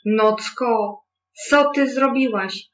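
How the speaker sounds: the wind scolds the night angrily; angry wind. A narrator's reading. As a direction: scold the night, rising in anger. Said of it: "zaszumiał rozgniewany wiatr".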